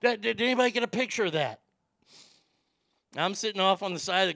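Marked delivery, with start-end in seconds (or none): 0.0-1.6 loud, higher, thrilled yelling; dad shouting with joy after sinking a long putt; imitating dad's excitement. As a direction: crow over an impossible putt. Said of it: "He was like".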